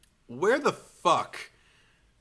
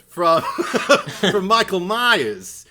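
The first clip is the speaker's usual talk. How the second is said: slow, louder solemn announcement, laughing through it; portentous screenwriter; 4 semitones higher, 6 dB louder, slower than usual. Retold or imitated. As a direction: intone it like a grave trailer line.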